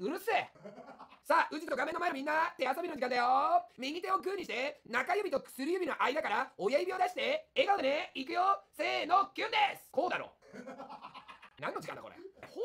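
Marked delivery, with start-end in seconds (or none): 1.2-9.9 put-on slow, sing-song children's TV voice, rising to a cheer; kids' show host. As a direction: lead little kids through a hand game. Reading a kids' hand-play comment. (子ども番組のお姉さん風)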